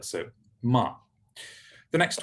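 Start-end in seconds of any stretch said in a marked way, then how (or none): 0.6-0.9 "ma" with a medium-length open a; vowel demo. Shown as a demonstration. Teacher repeating the Hebrew example, "ma" with open a. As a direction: say "ma" between cat and father. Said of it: "not quite as short as a".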